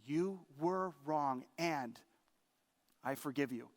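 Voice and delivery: lightly voiced Jesus forgiving; gentle forgiveness. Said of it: "Jesus has said that very thing".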